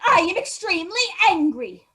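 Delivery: angry mother. Acted. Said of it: "his mother found ... she said".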